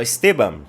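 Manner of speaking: "Esteban" said the Spanish way, es-te-BAN with final n; Spanish name. Retold or imitated. Barista praising the Palmeiras player, "Esteban" in Spanish pronunciation. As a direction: lightly imitate "Esteban" as Chileans say it. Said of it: "Lá eles chamam de Esteban".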